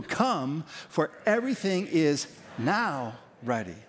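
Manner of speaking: "now" held out and set apart from "ready"; stress on now. Shown as a demonstration. Preacher has the congregation join again, emphasis on "now". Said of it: "with that emphasis on the now".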